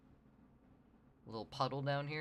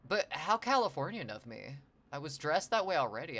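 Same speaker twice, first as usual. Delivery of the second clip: bad Californian accent; 3 semitones higher, 6 dB louder than usual. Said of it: "I was just going for, like, a really bad Californians".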